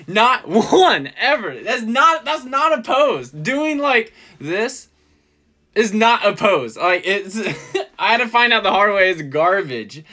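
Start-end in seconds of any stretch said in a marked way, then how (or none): 0.1-1.6 laughing emphasis. Retold or imitated. Laughing while quoting critique. 1.6-6.8 raised mock scolding. Quoting photographer's blunt critique.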